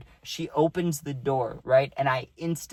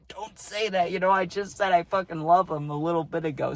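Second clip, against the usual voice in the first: high, strained hushed-up plea; urgent aside; 4 semitones higher than usual. Retold or imitated. Friend to teammate exposing the lie, urgent strained aside. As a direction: plead urgently under cover, pitch pushed up.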